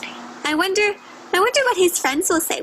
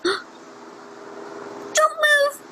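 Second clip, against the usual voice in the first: hushed and tense, much softer; hushed warning; 12 semitones higher, 4 dB quieter than usual. Acted. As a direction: freeze and whisper the warning. Gasp, bear might see you.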